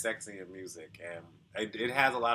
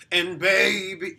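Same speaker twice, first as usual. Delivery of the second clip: put-on slow "and baby" with a touch of distortion, higher; light grit; 8 semitones higher, 7 dB louder, slower than usual. Shown as a demonstration. Coach showing light distortion on "and baby". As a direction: add just a little grit to "and baby". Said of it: "add a little bit of distortion and grit".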